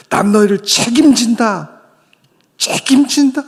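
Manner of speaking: high, loud fatherly vow as God. Acted. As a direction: proclaim it as God promising his children. God's voice voiced in sermon.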